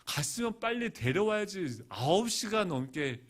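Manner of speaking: mildly heated telling-off of his wife; angry outpouring. Retold or imitated. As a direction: reenact an exasperated husband's rant. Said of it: "하면서 막 쏟아붓고 나니까".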